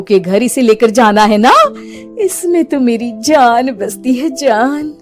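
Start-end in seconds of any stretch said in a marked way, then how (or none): 2.2-4.9 softer witch aside; secretive gloating. Acted. Witch confiding her life is in doll, soft gloating. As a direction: drop the volume, savouring it.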